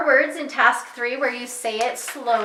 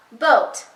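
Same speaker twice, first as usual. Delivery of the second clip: "Boat," on its own, louder, between pauses; separated word part; 5 dB louder than usual. Shown as a demonstration. Teacher demonstrating say it fast, "Boat," isolated between pauses. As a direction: set "Boat," apart, then stop. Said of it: "it tells you to pause again".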